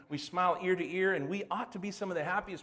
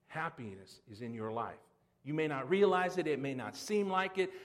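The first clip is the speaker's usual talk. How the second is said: gentle voice of God. Retold or imitated. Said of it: "He's looking down and he's saying".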